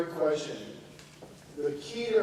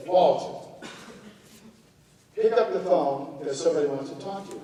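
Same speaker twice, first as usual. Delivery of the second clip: insistent call; 2 semitones higher, 6 dB louder than usual. Retold or imitated. Aunt insisting, calling again.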